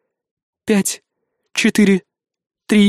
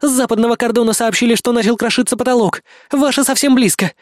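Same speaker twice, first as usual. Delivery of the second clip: higher, hurried report; urgent woman voice; 6 semitones higher than usual. A narrator's reading. Kay warns the group the enemy is close, urgent. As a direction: warn them, higher.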